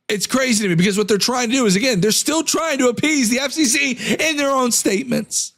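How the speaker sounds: strained voice going hoarse; losing voice. Real, not acted. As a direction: voice giving out, hoarse. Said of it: "I'm losing my voice".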